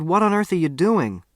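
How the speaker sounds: high, astonished outcry; boy cries out at his dad, astonished; crying out. Acted. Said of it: "I cried".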